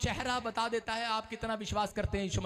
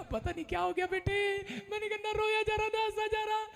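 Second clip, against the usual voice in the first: bewildered; 12 semitones higher than usual. Retold or imitated. Answering daughter mid laughing fit.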